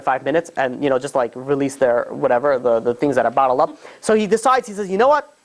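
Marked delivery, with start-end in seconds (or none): 4.9-5.4 sudden resolve. Retold or imitated. Sudden decision.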